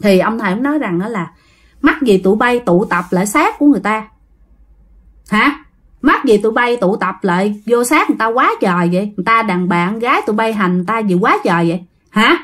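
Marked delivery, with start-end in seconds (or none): 1.8-12.4 understated stern scolding, faster at the end; a hint of an annoyed master; mild mock scolding. Master rebukes the spirits for tormenting the woman, mildly scolding. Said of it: "Cái ông đó ông nói vậy nè".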